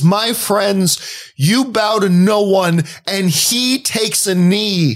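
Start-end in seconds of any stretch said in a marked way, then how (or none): 0.0-2.8 quoting the king. Retold or imitated. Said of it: "He says".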